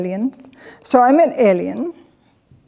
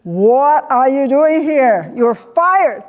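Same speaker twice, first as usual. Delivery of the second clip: Trump impression; 3 semitones higher, much slower than usual. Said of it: "he wasn't there saying".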